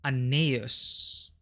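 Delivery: Aeneas said as ih-NEE-us; a plain English Aeneas, ih-NEE-us; English pronunciation. Shown as a demonstration. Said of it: "in English, it's often pronounced".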